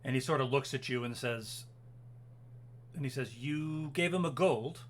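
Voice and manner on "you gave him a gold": slow, drawn-out disbelieving question; incredulous. Acted. Officer learns a guard took gold, slow incredulity. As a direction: stretch it out in accusation.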